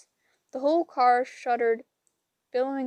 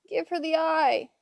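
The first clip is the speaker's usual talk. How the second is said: screamed; 5 semitones higher than usual. A narrator's reading. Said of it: "Annabeth screamed".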